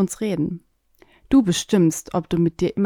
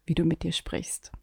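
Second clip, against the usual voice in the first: whisper; 8 dB quieter than usual. Acted. Whispered summary tip.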